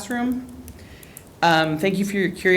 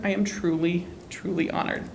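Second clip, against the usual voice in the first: choked-up thanks; 6 dB quieter than usual. Real, not acted. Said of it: "I'm gonna get emotional".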